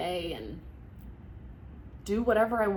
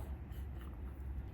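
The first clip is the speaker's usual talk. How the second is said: tearful breathy laugh; 15 dB quieter than usual. Real, not acted. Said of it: "getting emotional".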